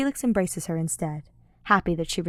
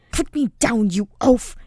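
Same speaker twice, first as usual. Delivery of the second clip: louder irritated protest; annoyed snap; 4 semitones higher, 8 dB louder than usual. A narrator's reading. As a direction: bark it while struggling free. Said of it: "he says, slapping at the gauntlets".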